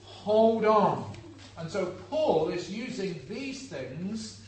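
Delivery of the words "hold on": loud, raised rallying call; full-voiced cheer of encouragement; crowd shouting. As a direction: bellow it like a supporter. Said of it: "There would have been people shouting".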